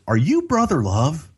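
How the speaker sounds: high, eager fan question; a cop who can't believe it; hopeful fan asking; starstruck cop. Retold or imitated. Cop voiced in retold story.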